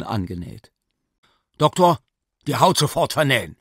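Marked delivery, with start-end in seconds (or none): 1.6-3.6 louder, higher and fast command; urgent shouted order. Acted. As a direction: snap the order across the table. Surgeon barks order mid-operation.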